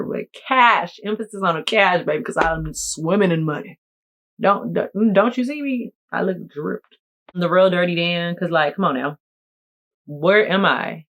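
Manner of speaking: ordinary talk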